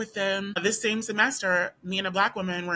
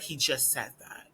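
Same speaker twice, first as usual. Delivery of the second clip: under her breath; 5 semitones lower, 7 dB quieter than usual. Retold or imitated. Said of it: "what she said under her breath".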